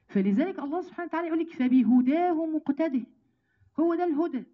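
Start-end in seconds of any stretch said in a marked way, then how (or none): 1.5-3.1 slow, drawn-out chanted recitation; Quran recitation. Acted. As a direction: intone the verse slowly, like tajweed. (تلاوة قرآنية بطيئة ممدودة)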